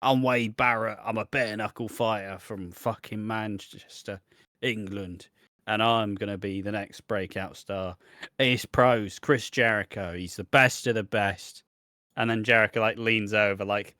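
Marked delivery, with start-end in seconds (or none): 0.0-11.6 mock Manchester accent; Wade Barrett. Podcaster retelling a wrestler's promo, mock Manchester accent. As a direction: introduce yourself like a Manchester bare-knuckle fighter, lightly imitated accent. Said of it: "why I'm doing an accent".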